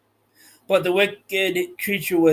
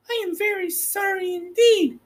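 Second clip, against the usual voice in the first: frightened apology; 14 semitones higher than usual. Acted.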